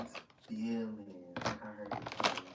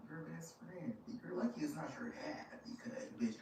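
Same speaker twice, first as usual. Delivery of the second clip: taunting retort; 9 semitones higher than usual. Retold or imitated. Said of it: "I'm like".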